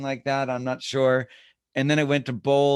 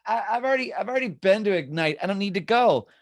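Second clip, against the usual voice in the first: higher, louder mock refusal; dismissive agent's thoughts; 7 semitones higher, 5 dB louder than usual. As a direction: protest like a reluctant know-it-all. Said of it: "So a lot of us will think".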